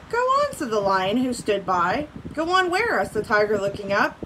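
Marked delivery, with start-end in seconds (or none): 0.1-0.5 very high-pitched prodding command; urging. A narrator's reading. Lion standing by urges the tiger, prodding. 2.4-3.0 higher-pitched asking back; puzzled question. A narrator's reading. Tiger looking up at the lion, questioning.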